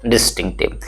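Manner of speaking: low, falling "डिस्टिंक्टिव", said without a break; correct pronunciation repeated. Shown as a demonstration. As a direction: answer with "डिस्टिंक्टिव" as one settled word. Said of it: "क्या पढ़ेंगे?".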